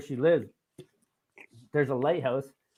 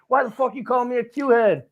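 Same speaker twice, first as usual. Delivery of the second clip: high, loud mock outrage; hammed-up angry challenge; mock angry confrontation; 10 semitones higher, 7 dB louder than usual. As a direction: demand it like an offended guy. Imagined angry guy confronting.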